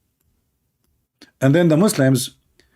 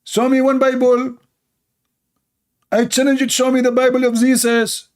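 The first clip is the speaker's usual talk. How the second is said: mock challenger; 8 semitones higher than usual. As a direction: sneer it out as the challenger. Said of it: "they say".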